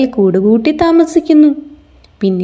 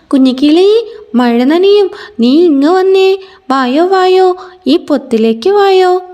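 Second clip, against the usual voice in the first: higher, louder call to come over; 5 semitones higher than usual. Acted. Parrot calls the chick to her hollow, loud higher call. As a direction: parrot calling the chick across the rain. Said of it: "ഉറക്കെ വിളിച്ചു പറഞ്ഞു".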